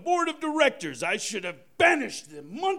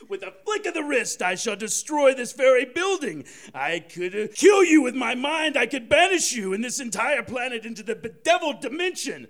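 booming arrogant alien overlord; 2 semitones higher than usual. Acted. Santa threatens with godlike power.

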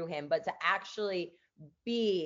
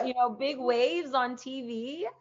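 proud aunt voice; 6 semitones higher than usual. Retold or imitated.

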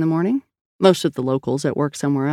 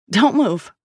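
mild shout, higher pitch; raised-pitch warning; 6 semitones higher than usual. A narrator's reading. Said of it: "Sal shouted".

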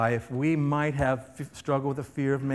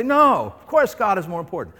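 sharp high "No", then a quick brush-off; mock-offended churchgoer's denial; indignant no; 4 semitones higher, 6 dB louder than usual. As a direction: protest it's obvious. Congregation's imagined reply.

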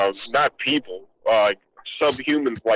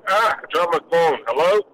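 muffled, watery phone line; underwater gurgling voice; 3 semitones higher than usual. Real, not acted. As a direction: sounds like talking under a waterfall. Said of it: "Are you in a waterfall?".

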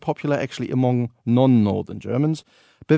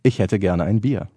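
High German; 4 semitones lower than usual. Shown as a demonstration. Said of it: "So High German?".

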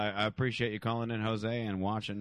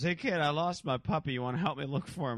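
higher-pitched friendly stranger act; prank stranger luring; 6 semitones higher than usual. Retold or imitated. Prankster asks a kid for puppy help, imitated luring voice. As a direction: imitate a man coaxing a kid. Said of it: "And he goes".

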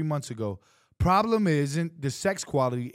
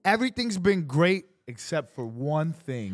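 sweet storybook reading voice; kindergarten teacher voice. Acted. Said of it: "I love how he's putting his extra voice".

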